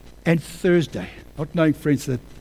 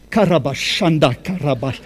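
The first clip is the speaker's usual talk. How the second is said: tongues; 3 semitones lower than usual. Real, not acted. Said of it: "That means incredible".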